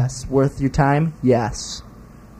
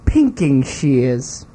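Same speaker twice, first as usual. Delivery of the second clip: slow, put-on British accent; much slower than usual. Answering the challenge to say pinking shears, mock British accent. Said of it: "said in your best British accent".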